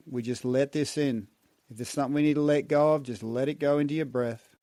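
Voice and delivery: calm, soothing relaxation guide. Shown as a demonstration. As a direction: ease them into release gently. Relaxation after the hum.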